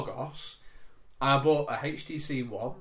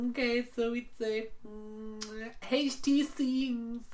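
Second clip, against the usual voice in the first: imitated Indian accent; 9 semitones higher, much slower than usual. Agent voiced in phone story.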